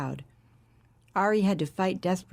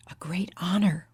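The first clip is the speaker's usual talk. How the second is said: breathy whisper of awe. A narrator's reading. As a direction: hush it reverently. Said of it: "whispered Carla".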